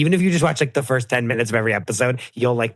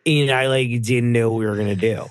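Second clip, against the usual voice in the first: put-on Californians-style frat accent; Patrick. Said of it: "I'm slipping into the Californians".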